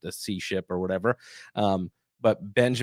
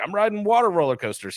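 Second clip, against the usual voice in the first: put-on eager kid; 10 semitones higher, 3 dB louder than usual. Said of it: "and he's like".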